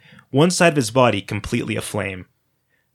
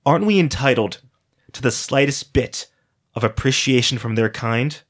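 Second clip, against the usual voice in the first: rhetorical showman; 2 semitones higher than usual. Acted. Hairless man's rhetorical climax.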